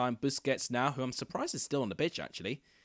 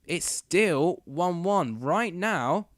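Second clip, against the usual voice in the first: excited commentary; 4 semitones higher, 4 dB louder than usual. Real, not acted. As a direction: announce the score with building excitement. End of extra-time half.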